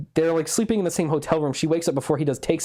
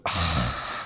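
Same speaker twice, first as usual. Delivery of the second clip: imitated groan; 13 semitones lower, 6 dB quieter than usual. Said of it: "and she goes".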